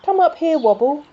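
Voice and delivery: loud, high, happy call across the crowd. Acted. Jumper calls Wobble up onto the wheelbarrow, loud and high. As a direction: hail your friend from the parade float.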